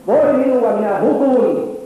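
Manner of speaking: high, loud cry of woe, drawn out; Jesajan huuto. Retold or imitated. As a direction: act out a prophet crying out, overwhelmed. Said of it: "Jesajan täytyy huutaa". (profeetan kova, korkea hätähuuto)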